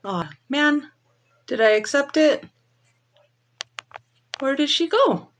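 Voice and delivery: talking while chewing gum; words round a wad of gum. Real, not acted. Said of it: "I can't talk and chew gum".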